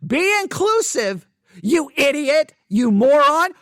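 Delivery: mock the commenter in a shrill put-on voice; a high, loud caricature of a smug scolder; mocking parody voice. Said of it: "now please, please note".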